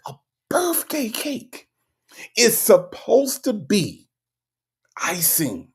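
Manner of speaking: high, slow, whining cry over the cake; hammed-up sob, drawn out and high; mock wail. Repeats phrase as mock wail.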